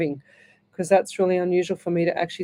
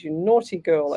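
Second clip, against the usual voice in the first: teasing tut-tut, lower and settled; mock scolding; 3 semitones lower than usual. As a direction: repeat the tease, calmer. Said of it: "I am not saying what you just wrote".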